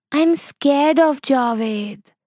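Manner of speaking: put-on mildly frightened little girl; scared whisper. A narrator's reading. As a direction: confide a fear, drawn out. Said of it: "whispered Shahana".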